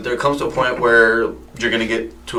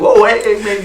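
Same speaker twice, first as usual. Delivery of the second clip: high calming quote; 9 semitones higher than usual. Retold or imitated. Calming a snapping fighter.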